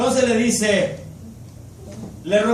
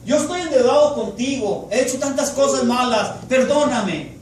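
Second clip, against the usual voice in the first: humble prayer. Shown as a demonstration. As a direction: pray it humbly, as if kneeling. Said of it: "nuestra oración con Dios".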